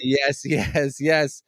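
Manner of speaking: flat robotic monotone. Acted. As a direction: speak like a machine, robot voice. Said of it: "why do you sound like a robot?".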